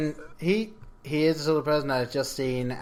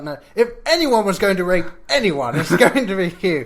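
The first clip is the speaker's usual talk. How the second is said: retelling the line, laughing, higher and louder; laughing quote; 7 semitones higher, 8 dB louder than usual. Retold or imitated. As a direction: quote it while cracking up. Retelling the characters' silly argument.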